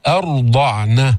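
slow "أرضعن" with a thickened r; "أرضعن" with dark, held r; heavy ra. Shown as a demonstration. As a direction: draw out "أرضعن", hamza light and ر full. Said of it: "فخم الراء".

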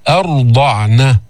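أرضعن slowed, with a thick, full ra; heavy ra. Shown as a demonstration. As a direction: darken the ra in أرضعن after a light hamza. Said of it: "فخم الراء،".

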